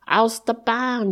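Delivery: high, loud shout to clear the way; warning shout. A narrator's reading. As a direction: shout ahead from a racing sledge. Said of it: "schrien sie". (laut warnend rufen)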